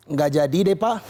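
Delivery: mock nervous backing down. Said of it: "pasti deg-degan banget".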